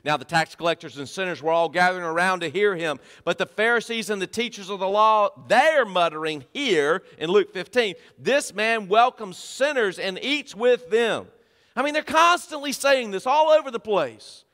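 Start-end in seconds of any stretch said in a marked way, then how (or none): 3.2-14.4 raised, insistent sermon delivery; emphatic preaching. Acted. Preacher exposing the Pharisees' complaint, emphatic preaching. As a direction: hammer the key words to the congregation.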